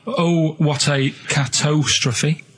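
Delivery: slow drawn-out dramatic headline; announced headline. Shown as a demonstration. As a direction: read it slowly like a headline. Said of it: "I'll give 'em a little headline".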